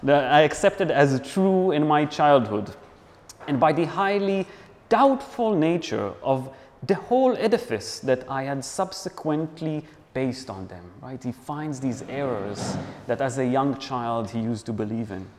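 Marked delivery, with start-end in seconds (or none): 0.0-10.9 put-on light French accent, dramatic reading; hint of French accent, measured and theatrical; fake French accent. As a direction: read it out with a touch of mock French. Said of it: "do it in my fake French accent".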